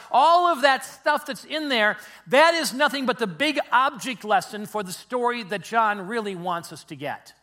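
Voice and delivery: loud, high-pitched insistence; emphatic preaching. Real, not acted. Preacher telling the congregation they missed the story, emphatic. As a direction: drive the point home at full volume. Preacher hammers home his main point.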